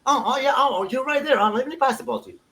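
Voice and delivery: lightly voiced player begging politely for the ball; mock timid player. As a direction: mimic a meek player pleading for a pass. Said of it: "tells Peña".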